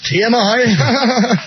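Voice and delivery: slow drawn-out letters. Acted. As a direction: spell it out very slowly. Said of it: "too much information room".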